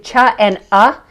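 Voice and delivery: "cha and uh" with hard ch and short uh; both Sanskrit sounds. Shown as a demonstration. Guest names both Sanskrit sounds, hard "cha", short "uh". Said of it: "if I took both of those".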